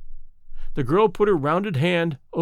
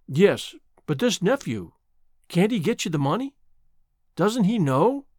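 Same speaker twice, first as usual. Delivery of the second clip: insisting; 4 semitones higher than usual. Acted. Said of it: "she insisted, heatedly".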